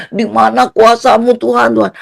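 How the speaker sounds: mock wailing appeal to heaven; retold frantic plea; panicked pleading. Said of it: "udah panik heboh di depan penjara".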